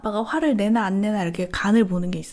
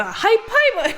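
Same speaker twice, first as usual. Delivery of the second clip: much higher, bright praise; excited cheer; 11 semitones higher, 4 dB louder, slower than usual. Retold or imitated. Mom cheering her son's potty success. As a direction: squeal it like a proud mom.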